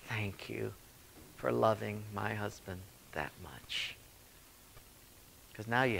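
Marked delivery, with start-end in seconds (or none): 0.1-4.0 soft, whispered, tearful gratitude; whispered thanks. Retold or imitated. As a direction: breathe out your thanks. Grateful widow in heaven.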